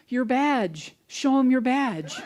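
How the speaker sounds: high, loud and laughing, calling across the field; hammed-up rancher yelling with a laugh; laughing mock shout. Rancher yells to the fleeing officer, laughing mock shout.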